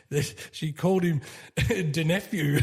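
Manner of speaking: can't hold the laugh on the last word; laughing through punchline. Real, not acted. Telling his own dad joke, laughing through the punchline. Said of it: "I laugh every time I tell".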